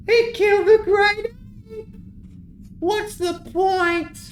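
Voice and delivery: distraught goblin. Acted. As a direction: shriek it like a crushed believer. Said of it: "Chumana says".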